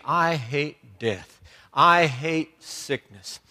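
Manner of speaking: slow, weighted declaration of hatred; understated anger. Retold or imitated. Preacher voicing Jesus at the tomb, understated slow anger. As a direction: stretch each word out with controlled indignation. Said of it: "he snorted in anger".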